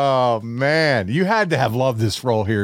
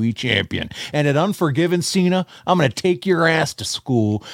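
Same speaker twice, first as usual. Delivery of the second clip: wrestling promo. Acted. Played promo clip of Kurt.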